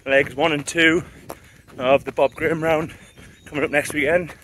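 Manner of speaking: talking mid-run, a little breathless; while running. Real, not acted. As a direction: speak while jogging along. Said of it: "enjoy the run".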